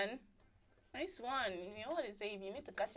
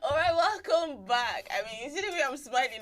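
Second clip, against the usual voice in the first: excited; 4 semitones higher, 5 dB louder than usual. Real, not acted. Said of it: "I'm actually really excited".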